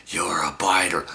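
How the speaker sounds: imitated whispery scolding; hoarse half-whisper, pointing the blame; creepy accusation. Date pointing at man in car, whispered accusation. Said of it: "she's all looking at me and pointing".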